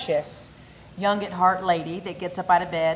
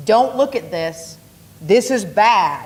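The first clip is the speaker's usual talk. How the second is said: mock warning; 4 dB louder, slower than usual. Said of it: "They're like".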